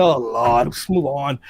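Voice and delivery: low, weary mock groan; bored dismissal. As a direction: drop the pitch, wave it away. Bored reaction to dull interview.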